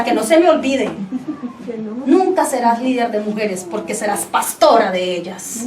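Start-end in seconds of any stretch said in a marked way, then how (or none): 2.1-5.6 lower, measured divine pronouncement; God's voice. Retold or imitated. God answers the tearful woman again, in a calm low voice. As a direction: give God's verdict calmly, settling lower at the end. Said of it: "nuevamente escucho la voz de Dios".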